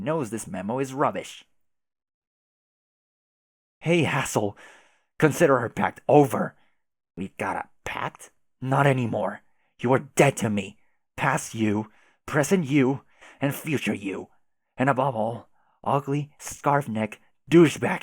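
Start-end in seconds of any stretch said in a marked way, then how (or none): 3.8-6.6 angry. Acted. Angry troll breaking off pact. 8.6-14.3 angry. Acted. Angry troll ending friendship.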